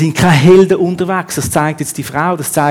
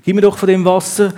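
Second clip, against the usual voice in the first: snippy; 4 semitones higher than usual. Retold or imitated. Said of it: "so schnippisch geantwortet".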